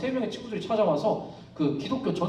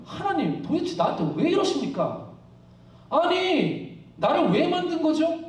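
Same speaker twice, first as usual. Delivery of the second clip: higher-pitched mock protest to God; resentful complaint; 5 semitones higher than usual. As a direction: plead indignantly, acting out Job. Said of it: "이렇게 막 하나님을 원망해요". (하나님을 원망하듯 높은 목소리로)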